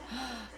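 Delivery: quiet awed gasp; soft gasp. Real, not acted. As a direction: gasp at the beauty. Seeing the dragon paper.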